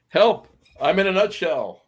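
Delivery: high squeaky cry for help from inside a nutshell; a mild mock cry of someone stuck inside a nut; tiny trapped voice crying help. Host jokes he is trapped in a nutshell, high mock cry. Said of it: "I was doing Michael Myers from, uh, Austin Powers".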